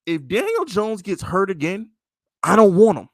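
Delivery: loud exasperated rant, I don't want him. Real, not acted. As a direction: blurt the last words out loud and sharp. Ranting about a backup QB.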